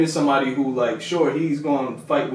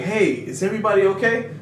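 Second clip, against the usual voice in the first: lightly voiced friendly hero, pitched up; a higher, kindly check-in; nice Deku; 5 semitones higher than usual. Fan imitating a nice hero checking on people, lightly voiced and higher. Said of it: "that he's nice".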